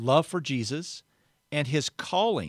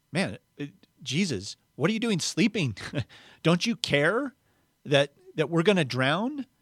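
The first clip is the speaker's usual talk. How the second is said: higher-pitched, half-laughing disbelief; mock exasperated plea; 5 semitones higher than usual. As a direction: imitate disciples complaining to a sleeper, lightly hammed-up. Acting out disciples' panicked complaint to Jesus.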